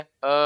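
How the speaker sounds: E in place of A, mouth barely open; wrong, half-shut hamzah vowel; too-closed vowel. Shown as a demonstration. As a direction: say "e" with a narrowed mouth. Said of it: "tidak dibaca".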